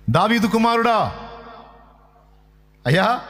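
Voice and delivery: blind beggar crying out. Acted. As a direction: plead desperately as the blind beggar calling after Jesus. Blind man crying out to Jesus.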